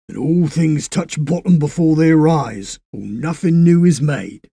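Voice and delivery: put-on musing like an old sage; wise old railwayman. Railway man muses.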